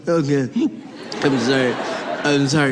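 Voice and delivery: low-pitched, halting mock whimper; whimpered apology. Driver calms down for officer, mock whimper. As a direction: apologize brokenly, coming down from comic panic. Driver calming down after panic.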